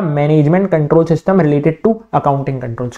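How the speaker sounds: slow, word by word dictation. Shown as a demonstration. Teacher dictating the key phrase to students, very slow. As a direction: spell it out slowly for notes.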